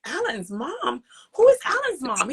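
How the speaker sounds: acted-out incredulous question, pitch jumping up; puzzled disbelief. Acts out puzzled reply to son.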